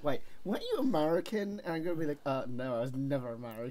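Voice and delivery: British accent acting out a two-sided exchange; put-on British accent. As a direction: play the puzzled questioner and denial as a Brit. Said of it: "He does this all the time".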